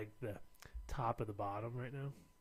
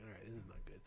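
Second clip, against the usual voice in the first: whispered aside; 2 semitones lower, 7 dB quieter than usual. Retold or imitated. Retold worried thought, whispered.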